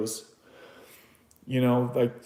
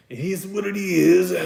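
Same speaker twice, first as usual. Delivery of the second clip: emotional; 6 semitones higher, 4 dB louder than usual. Real, not acted. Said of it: "I didn't expect to get emotional on here tonight".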